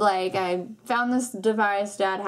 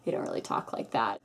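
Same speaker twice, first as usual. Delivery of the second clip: whispered aside; 12 semitones lower, 7 dB quieter than usual. Real, not acted. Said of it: "aside after mocking nieces".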